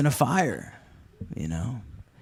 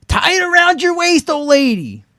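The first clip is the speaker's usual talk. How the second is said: higher, louder called-up order; shouted instructions; 5 dB louder than usual. Retold or imitated. Rescuer shouts up to the old lady, commanding. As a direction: yell the instruction up to her. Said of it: "I'm like".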